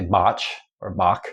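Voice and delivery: Bach said with a hard K at the end. Shown as a demonstration. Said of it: "with a really hard K".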